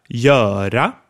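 göra with a long open ö before the r. Shown as a demonstration. Teacher modeling göra, long open vowel. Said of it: "the long open ö".

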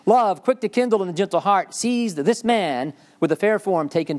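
a hint of the romantic heroine; swooning romantic reading. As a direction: read it as if swept away by love. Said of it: "Very romantic".

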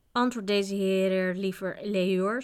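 firm reprimand to a servant; understated strict master; stern. A narrator's reading. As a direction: order him to answer, with mild severity. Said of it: "sprak de waard streng".

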